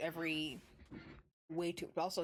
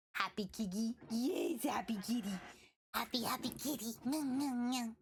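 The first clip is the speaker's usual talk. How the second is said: whisper to cat; 4 semitones higher than usual. Real, not acted. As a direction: breathe it to a purring cat.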